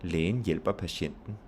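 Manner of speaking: slow, with "Lægen", "hjælper" and "patienten" each stressed; stress on each word. Shown as a demonstration. Teacher showing noun stress, slowly weighting "Lægen", "hjælper", "patienten". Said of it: "you have to stress each of these words".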